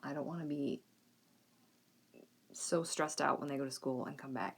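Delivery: normal talking voice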